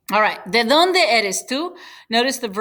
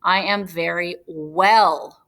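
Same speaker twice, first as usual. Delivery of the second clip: slow gloss; 3 semitones lower, slower than usual. Shown as a demonstration. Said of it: "We say well".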